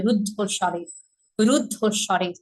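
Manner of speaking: রুদ্ধ with a held দ before ধ; রুদ্ধ স্বরে, rud-dho doubled; double consonant. Shown as a demonstration. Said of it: "দুইটা ধয়ের উচ্চারণ করতে হবে".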